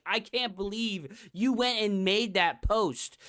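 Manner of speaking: ordinary talk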